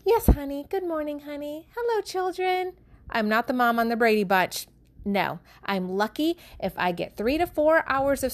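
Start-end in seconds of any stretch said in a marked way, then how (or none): 0.0-2.7 lightly higher, syrupy-sweet pretend greeting; mock sweet morning mom. Mom mock-greeting husband and kids, sugary sweet. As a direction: play the cheerful sitcom mom, a touch overdone. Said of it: "with a smile on my face saying".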